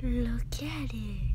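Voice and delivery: slow hushed whisper; awed whisper. Real, not acted. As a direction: breathe it out in wonder. Awed at the new pet.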